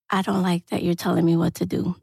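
low tone. Retold or imitated. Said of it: "low tone 'cause he's Haitian".

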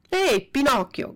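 loud, high call across the beach; a bully yelling the puppet's name; shouting. Acted. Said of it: "gridò allora il più grande".

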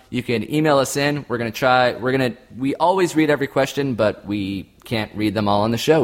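ordinary talk

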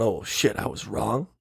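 hushed, deflated admission; quiet dismay. Retold or imitated. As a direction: drop the voice, caught out. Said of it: "everyone's going".

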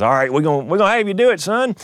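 hammed-up big man's voice, pitched high; gruff board chair. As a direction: imitate a gruff official handing down a ruling. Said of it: "this big, gruff, six-foot-six gentleman".

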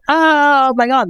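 high, slow amazed gasp. Pretend. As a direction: squeal it in disbelief.

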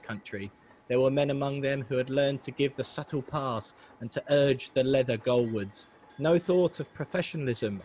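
put-on a slightly posh, formal recital of an old quote; posh formal reading. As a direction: read it out like a proper old speech, a touch posh. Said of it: "It was almost a little bit too posh".

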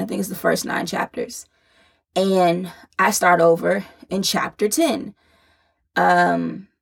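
breathless, winded delivery; talking while short of breath. Real, not acted. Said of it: "I'm out of breath because I'm pregnant again".

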